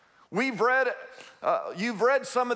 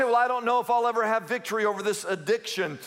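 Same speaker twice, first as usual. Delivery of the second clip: struggling addict; 3 semitones higher, faster than usual. Retold or imitated. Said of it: "You say".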